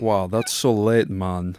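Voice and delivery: slow, lightly put-on Jamaican lilt; mock Jamaican. Joking about texting with "mon", mock Jamaican accent. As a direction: drawl it like a fake Jamaican. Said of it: "Yeah, it's Jamaican".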